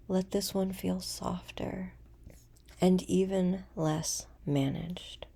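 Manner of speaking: unhurried meditation voice with long pauses; guided meditation. Acted.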